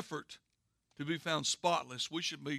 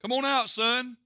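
louder, higher burst of relief; 7 semitones higher, 7 dB louder than usual. Acted. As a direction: call out to him in relief. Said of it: "he said with relief".

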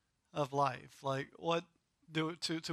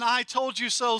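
smug told-you-so; 5 semitones higher, 4 dB louder than usual. Retold or imitated. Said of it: "smug attitude".

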